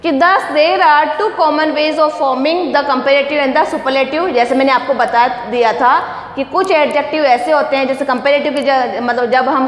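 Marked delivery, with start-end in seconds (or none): 0.1-4.3 slow read-aloud. Shown as a demonstration. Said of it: "teacher reads textbook line slowly".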